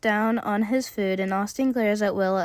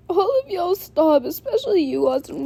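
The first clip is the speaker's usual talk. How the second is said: stern call to stop; 9 semitones higher than usual. Acted. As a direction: cut the fight off firmly. Breaking up a fight.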